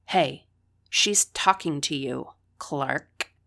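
loud, slow, snide taunt. A narrator's reading. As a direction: needle her with contempt. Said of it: "Her snide tone cut into me".

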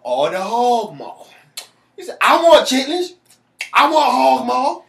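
high, loud, slow hammed-up old man demand; John Witherspoon voice. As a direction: crave it in a high drawn-out old voice. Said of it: "be like John Witherspoon".

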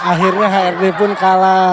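laughing. Real, not acted. Mocking the defeated HRD.

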